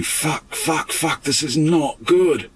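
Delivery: high, slow, hushed panic; panicked swearing. Retold or imitated. The speaker at the grave, reliving his panic, high and hushed. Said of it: "I was just shitting myself".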